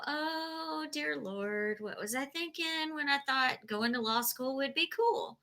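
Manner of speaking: hushed, rueful self-talk, acted out; mock regret. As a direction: lament it quietly, as if to yourself. Voices a lawyer's moment of regret.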